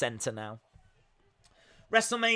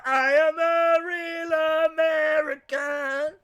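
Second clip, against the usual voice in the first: mock Hulk Hogan fan; 9 semitones higher, slower than usual. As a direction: chant it like a crazed fan. Vince in crowd cheering.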